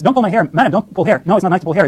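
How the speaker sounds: lightly voiced mom, pitched a little up; a hint of a mother correcting her toddler; mother gently scolding. Mom telling her toddler off for hair-pulling, lightly scolding. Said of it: "and the mom says".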